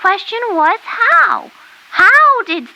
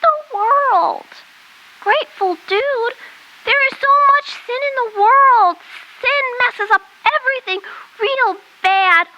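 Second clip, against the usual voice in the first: whiny crying. Acted. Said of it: "baby boo-hoo".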